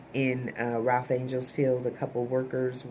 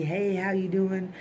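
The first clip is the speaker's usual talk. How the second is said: mock pleasantry; 4 semitones higher, slower than usual. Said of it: "Jimmy's all pleasantry".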